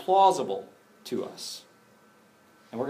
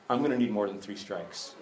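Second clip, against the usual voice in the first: disciples' mental math; 3 semitones lower than usual. Retold or imitated. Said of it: "you can hear them doing the mental math".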